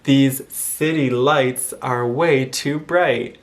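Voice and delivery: slow, T's softened into Ds; slow Michigan demo. Shown as a demonstration. Teaching visitors a practice sentence, slow and deliberate. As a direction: drill the softened T's slowly. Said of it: "one thing you might want to say is".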